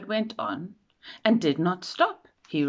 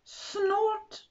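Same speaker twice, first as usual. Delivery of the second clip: machine snort; 3 dB quieter than usual. Acted. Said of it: "the big thing just said".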